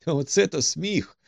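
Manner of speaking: mild outburst of amusement, pitch up; amused cry. A narrator's reading. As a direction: exclaim at how funny it is. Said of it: "скрикнув він".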